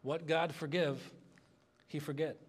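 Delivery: slow, lightly put-on Filipino accent; a hint of a Filipino accent, taken slowly. Pastor quoting the church woman's reply, light Filipino accent. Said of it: "in her thick Filipino accent".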